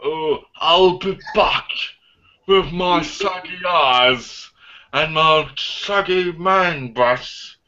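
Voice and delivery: put-on slow old Terminator voice; old robot voice. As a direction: drag it out like an aging robot. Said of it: "looking like an old-aged robot".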